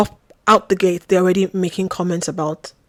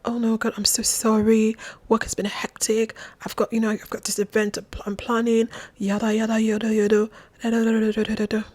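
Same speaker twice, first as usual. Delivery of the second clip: lightly mimicked proper English accent, softly rattling on; 3 semitones higher, 4 dB quieter than usual. Retelling his busy-work excuses, mock proper English accent. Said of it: "very proper English accent".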